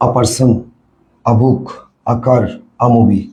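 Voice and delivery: spaced list with "a" joined on as "আ"; article pronounced "আ". Shown as a demonstration. Teacher recaps the drill for students, "a" said as "আ". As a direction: say "a" as "ah" before each noun. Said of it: "একে উচ্চারণ করবো কি".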